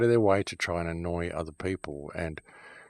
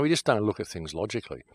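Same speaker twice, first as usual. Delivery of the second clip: ordinary talk, nothing marked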